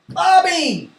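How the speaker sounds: high, falling name call; bright-eyed teacher calling out a name; calling on pupil. Pretend. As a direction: summon a child to take a turn.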